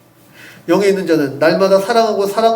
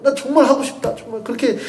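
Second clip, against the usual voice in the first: eager cry; 6 semitones higher than usual. Retold or imitated. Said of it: "이렇게 외치면서".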